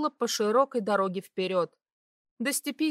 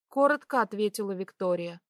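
ordinary delivery

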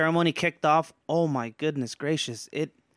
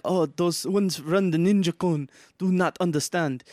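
calm wise martial arts master; 3 semitones higher than usual. Retold or imitated. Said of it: "sounded like a sensei".

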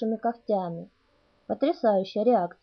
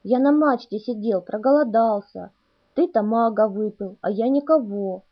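whiny complaining; 4 dB louder than usual. Acted. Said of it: "плаксиво законючил первый".

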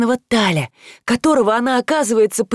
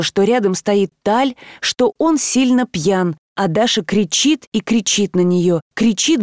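usual speaking voice

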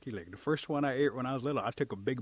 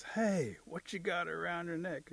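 higher-pitched, curious call; turkey calling out; 6 semitones higher, slower than usual. Acted. Turkey spots turtle walking along, curious call. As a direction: hail him with a nosy question.

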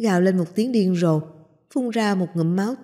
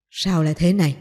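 sharp shout; 2 semitones lower than usual. Acted. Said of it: "cao giọng quát".

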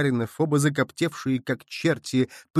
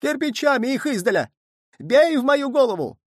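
much higher, loud squealing; frenzied squeal; 12 semitones higher, 4 dB louder than usual. A narrator's reading. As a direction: shriek for bricks. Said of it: "неистово визжал". (неистовый визг, намного выше)

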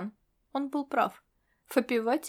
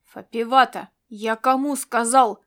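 barked order; 5 dB louder than usual. Acted. Commander barking at Fapivata to stop talking. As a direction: bark the order so she obeys now. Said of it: "рявкнул он".

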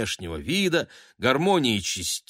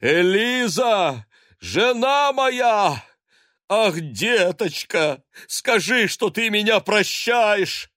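high, loud, slow theatrical wail; husband wailing loudly to wife upstairs; 11 semitones higher, 5 dB louder, slower than usual. A narrator's reading. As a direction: cry out for forgiveness, hammed up. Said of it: "громогласно причитая".

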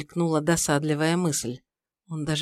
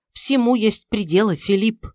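indignant mother-in-law; 5 semitones higher, 5 dB louder than usual. Acted.

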